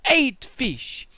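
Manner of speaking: loud high cry of wonder; mock amazement. Crowd gasping at the fish. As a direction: exclaim like a dazzled onlooker.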